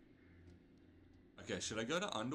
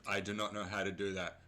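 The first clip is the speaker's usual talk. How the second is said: parser voice; 5 dB louder than usual. Pretend. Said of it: "a parser version".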